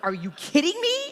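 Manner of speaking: half-hearted replay of her anger; mock mad disbelief. Wife retelling how she snapped at her husband, in mild mock anger. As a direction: pitch jumps up on an incredulous retold retort. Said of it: "I was so mad".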